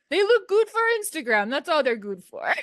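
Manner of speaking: high-pitched, lightly imitated verdict; quoting her boyfriend. Woman quoting her boyfriend's opinion, high mock verdict. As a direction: start very high, easing down, imitating him. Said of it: "he said, he said".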